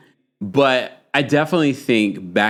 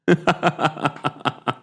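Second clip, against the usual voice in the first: high, rhythmic string of chuckles; laughter; 6 semitones higher than usual. Real, not acted. Amused by their own Phaedra accent, laughing. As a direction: laugh in quick repeated bursts.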